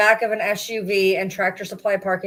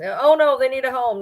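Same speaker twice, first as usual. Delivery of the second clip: higher, mocking they need a home; mock pleading; 5 semitones higher than usual. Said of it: "that's what happens".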